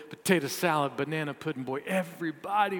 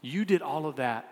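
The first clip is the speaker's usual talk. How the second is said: bitter disbelief; 3 semitones lower, 5 dB quieter than usual. Acted. Older son ends his rant.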